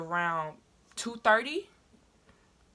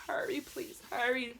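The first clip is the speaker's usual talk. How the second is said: retold pleading; 5 semitones higher, 7 dB quieter, slower than usual. Pleading in car during labor.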